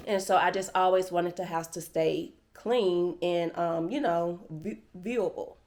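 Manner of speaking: talking around a retainer; slurred by a mouth retainer; wearing a retainer. Real, not acted. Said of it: "I have my Invisaligns in, my retainer".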